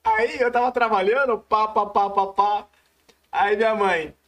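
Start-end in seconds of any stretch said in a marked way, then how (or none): 1.4-2.7 "pá" repetido em batidas ritmadas; barulho de trabalho imitado. Retold or imitated. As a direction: imite batidas rápidas de quem trabalha. (pá-pá-pá de trabalho a todo vapor)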